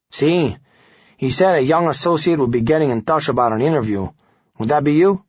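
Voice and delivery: put-on a guarded ex-con with a Hispanic accent. Guzman questions the young reporter in a Hispanic accent. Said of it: "A man with a thick Hispanic accent answered".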